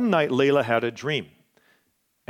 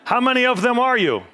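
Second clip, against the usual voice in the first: higher, louder mock British accent; 10 semitones higher, 5 dB louder than usual. Diver counts the trapped boys, imitating a British accent. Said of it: "That's the way British talk".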